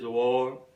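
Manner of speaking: "war" said British-style without the final R; RP pronunciation. Shown as a demonstration. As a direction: leave the R off the end of "war". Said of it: "in R P accent".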